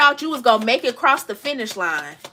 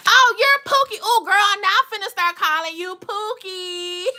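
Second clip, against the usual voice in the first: delighted; 6 semitones higher than usual. Real, not acted. Reader delighted by viewer's nickname.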